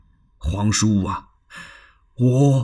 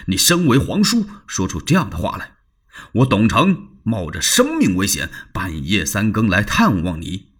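angry Dong Cheng. Acted. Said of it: "董承火了".

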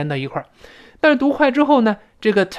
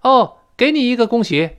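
unenthusiastic congratulation; 7 semitones higher, 5 dB louder than usual. Acted. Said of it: "这显得就不那么热情了".

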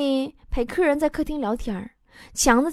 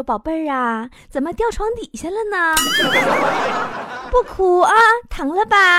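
coaxing mom; 5 semitones higher than usual. Retold or imitated. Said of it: "抱着我哄我说".

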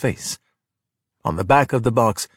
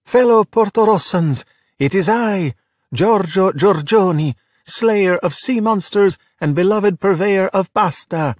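high, grand proclamation with swagger; bravado; 8 semitones higher, 3 dB louder than usual. Acted. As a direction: announce it with a showman's flourish. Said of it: "With a flourish and much bravado".

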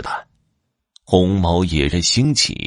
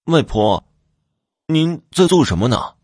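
put-on child's high call through a door; 9 semitones higher than usual. A narrator's reading. Youngest son outside grandmother's door, calling out. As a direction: pitch it up, lightly calling out. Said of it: "便在门外喊道".

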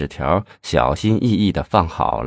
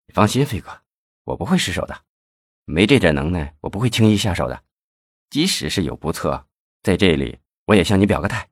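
level, slightly softer, unhurried; very calm; 4 dB quieter than usual. Acted. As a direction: say it coolly, giving your word. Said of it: "用十分冷静的语气说". (十分冷静、略轻的语气)

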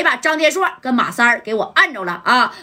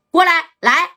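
calling out; 7 semitones higher than usual. Acted. Boss calling his men over.

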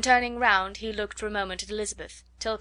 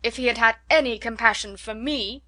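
impatient husband; 2 semitones higher, 7 dB louder than usual. A narrator's reading. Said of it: "cried her husband impatiently".

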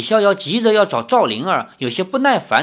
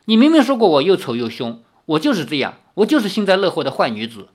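fast, mildly raised accusation; aggrieved cry; faster than usual. Acted. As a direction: insist on it, hurt and cross. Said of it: "叫道".

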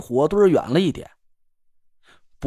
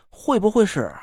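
cut off mid word. Acted. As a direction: question broken off abruptly. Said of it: "打断了我的话".

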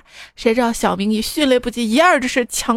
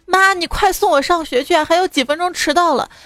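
put-on high-pitched pleading kid, mildly raised; desperate mock yell; 6 semitones higher than usual. Nephew phones mum as he is running late, desperate mock yell. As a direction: call out urgently like a panicked child. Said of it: "声嘶力竭地喊道".

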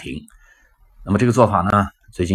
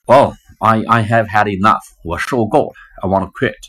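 mock fed up; 2 semitones higher, 4 dB louder than usual. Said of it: "非常沮丧的跟你说这话".

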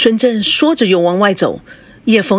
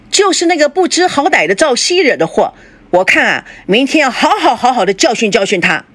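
pitched up high, loud enough to carry through the door; deliberately loud; 6 semitones higher than usual. Acted. Father deliberately loud so his daughter hears through the door. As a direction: say it loudly so the daughter overhears. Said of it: "孙正故意大声地说".

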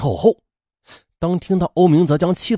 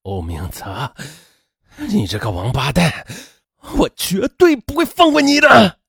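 cursing; 2 semitones higher than usual. A narrator's reading. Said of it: "他大骂道".

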